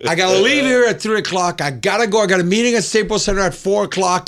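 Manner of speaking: high-pitched mock freak-out; retold inner panic. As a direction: rattle off worries as if panicking inside. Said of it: "freaking out in my mind, pure fear".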